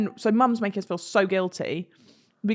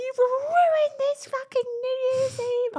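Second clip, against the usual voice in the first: high, shrill, crying, furious scream. Retelling Mum screaming at them after they fled the house, imitating Mum's angry screaming. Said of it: "Mum was screaming at us".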